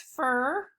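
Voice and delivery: "fur" as the blended F R sound. Shown as a demonstration. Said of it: "So F R says".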